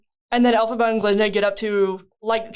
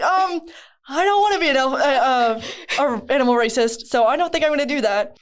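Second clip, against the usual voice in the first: mock Elphaba; 3 semitones higher than usual. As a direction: stumble politely then refuse. Elphaba voiced refusing.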